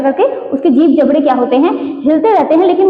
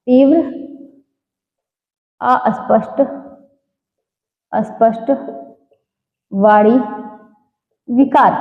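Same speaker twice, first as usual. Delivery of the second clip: slow, spelled-out reading; 2 semitones lower than usual. Shown as a demonstration. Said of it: "आगे देखेंगे तीव्र अस्पष्ट वाणी विकार".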